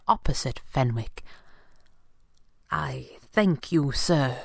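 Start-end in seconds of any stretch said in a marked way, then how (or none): 2.7-4.4 rueful smile. Acted. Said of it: "he said with a rueful smile".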